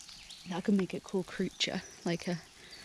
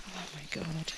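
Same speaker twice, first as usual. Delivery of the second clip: ordinary talk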